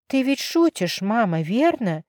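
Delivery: high, disbelieving question; can't believe her ears, asking again. Acted. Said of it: "переспросила Изабелла, не веря своим ушам". (недоверчиво, высоко)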